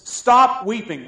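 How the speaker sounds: the elder ordering John to stop weeping, loud and slow; emphatic command. Shown as a demonstration. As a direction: command it slowly. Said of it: "He says".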